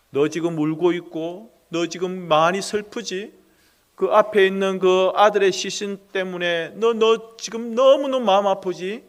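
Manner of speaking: gently rising, caring questions; tender questioning. Acted. Jesus tenderly asking the grieving widow about her pain. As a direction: reach out to her grief.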